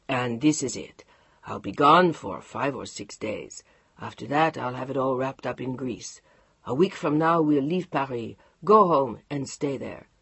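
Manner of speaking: low, unhurried husband with a teasing French goodbye; Mark's voice. Acted. Mark laying out plans.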